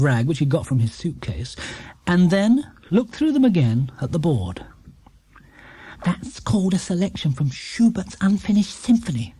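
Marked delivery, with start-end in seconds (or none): 6.0-9.3 breathy whisper during the concert. A narrator's reading. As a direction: whisper so the audience isn't disturbed. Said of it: "explained Judy in a whisper".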